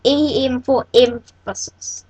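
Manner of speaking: "E M for emphasis" slow and weighty; emphatic. Real, not acted. Teacher repeating what the tag is for, emphatic. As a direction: spell out "E M", then stretch "emphasis". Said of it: "I'm saying that with emphasis".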